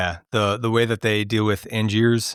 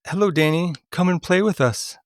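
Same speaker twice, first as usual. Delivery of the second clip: higher, lightly voiced eerie child call; a hint of ghostly sing-song invitation; creepy twins; 5 semitones higher than usual. Quizzing a friend, lightly eerie twins beckoning.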